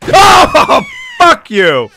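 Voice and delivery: a startled cry breaking into cursing; frightened shout. Real, not acted. Scared by a dead body.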